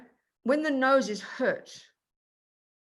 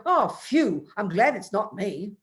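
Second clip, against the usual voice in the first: relieved eye voice. Pretend. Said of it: "is watching the poor nose suffer and going".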